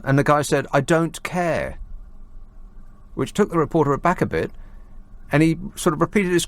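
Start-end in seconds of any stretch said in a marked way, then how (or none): 0.7-1.8 lightly voiced Cockney, words drawn out; mock Cockney voice. Host quoting a Leave voter to reporter, mock Cockney. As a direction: imitate a stubborn Cockney voter, slowly. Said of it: "putting on a deep Cockney voice".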